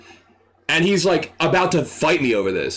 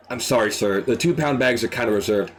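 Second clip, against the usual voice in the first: politely; 6 semitones lower than usual. Retold or imitated. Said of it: "And so I politely say".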